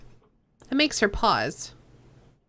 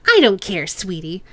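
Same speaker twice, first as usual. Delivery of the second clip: put-on Chang's own accent; 3 dB louder than usual. Boss Chang brushing off the cop, nasal accent. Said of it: "why is she picking up his accent".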